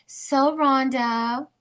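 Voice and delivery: soothing counselor tone; therapist voice. Shown as a demonstration. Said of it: "that's my therapist voice".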